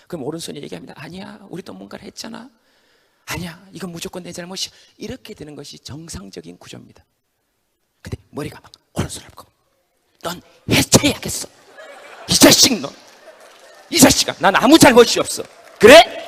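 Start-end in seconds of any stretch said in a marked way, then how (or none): 1.0-4.7 softer, kind reply; gentle reassurance. Acted. Right hand consoling softly. 10.2-16.2 louder, higher, rising to a yell; angry blaming. Acted. Head blaming right hand.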